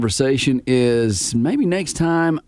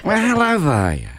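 higher, lightly voiced old lady; granny voice; 4 semitones higher than usual. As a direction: chirp a sweet old lady hello. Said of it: "you can be Velma".

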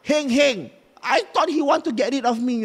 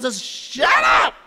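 shout; 4 dB louder, slower than usual. Acted. Ghost yells.

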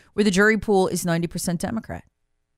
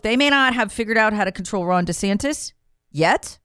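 yet leaned on as the last word; stress on yet; 2 semitones higher than usual. Shown as a demonstration. Talk show host warning listeners, stressing "yet". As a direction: land firmly on "yet" to warn it's coming. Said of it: "I emphasize the word yet".

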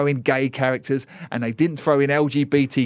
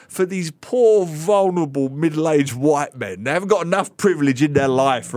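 sarcastic mock pity; 4 semitones higher, 3 dB louder than usual.

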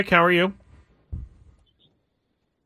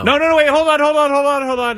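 sudden correction; 10 semitones higher, 4 dB louder, faster than usual. Real, not acted. Host suddenly corrects an answer.

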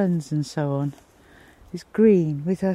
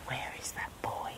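hushed searching whisper; 18 dB quieter than usual. Real, not acted. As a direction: whisper while peering out. Hiding from dog.

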